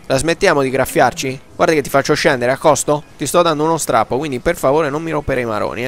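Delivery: loud scolding rant; explosive italian cursing. Pretend. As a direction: scold a passenger loudly. Scolding tiger passenger.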